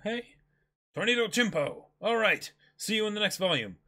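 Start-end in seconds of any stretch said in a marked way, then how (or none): 0.9-1.8 Chimpo said with a chi sound, not te; Tornado Chimpo, start Chimpo with a chi. Shown as a demonstration. A fan asks the author to say Chimpo with a chi. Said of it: "please say Nami's technique ... with a chi instead of a te".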